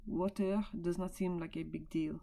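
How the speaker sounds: a go at a French accent; attempted French accent. Shown as a demonstration. Teacher retrying the clip's translation for class, put-on French accent. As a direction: read it in your best French accent. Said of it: "in my best accent now".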